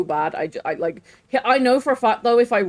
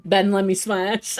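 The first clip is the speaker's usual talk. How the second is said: parrot imitation; 2 semitones higher than usual. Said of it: "He's like".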